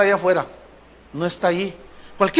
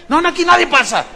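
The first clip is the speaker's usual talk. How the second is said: pitched-up mock refusal; insistent usher; 9 semitones higher, 3 dB louder, faster than usual. Usher refuses to let the pastor in, high and insistent. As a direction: cut them off like an officious doorman.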